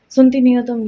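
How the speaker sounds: retold scolding. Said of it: "इन्होंने मुझे इतनी तेज़ डांटा".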